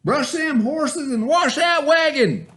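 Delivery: high, loud, slow commands; bossy shout. A narrator's reading. Wicked stepdaddy shouting orders at Bubba. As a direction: holler the chores at him. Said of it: "shouted his wicked stepdaddy".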